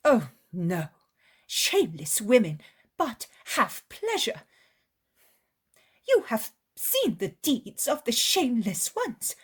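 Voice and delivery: an upset woman, high and loud, almost crying; bitter lament. Acted. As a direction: pour out a poor mother's grievance.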